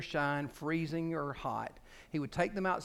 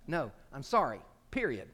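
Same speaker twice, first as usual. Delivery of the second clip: firm apology; 4 dB louder than usual. Shown as a demonstration. Models apology without any excuse.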